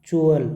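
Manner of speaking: च्युअल punched loud; emphatic ending. Shown as a demonstration. Teacher stressing the ending च्युअल for students. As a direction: hit च्युअल loudly. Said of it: "क्या पढ़ेंगे?".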